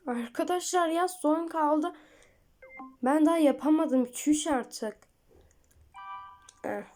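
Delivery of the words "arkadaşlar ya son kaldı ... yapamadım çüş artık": higher and louder, exasperated; rising frustration over the task; frustrated. Real, not acted. Frustrated by the unfinished exercise.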